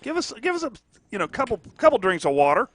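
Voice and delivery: high, mock-whiny defender voice; voicing the defense. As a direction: play a tired defender begging for water. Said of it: "there's where the defense is going".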